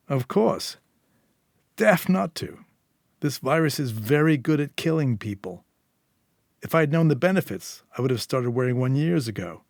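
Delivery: cocky Eddie, lightly voiced. Smug fixer teasing Julia about his mask, lightly voiced. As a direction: lightly play the self-satisfied fixer.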